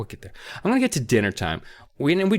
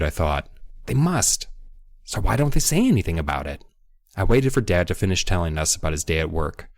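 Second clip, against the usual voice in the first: measured, lower-pitched reading aloud; story narration; 6 semitones lower than usual. A narrator's reading. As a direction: read the passage like an audiobook narrator. Reads book passage aloud.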